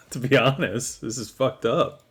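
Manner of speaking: normal talking voice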